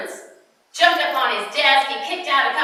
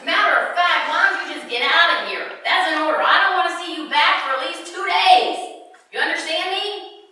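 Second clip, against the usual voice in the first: stern boss; 5 semitones higher than usual. Acted. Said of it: "said the director".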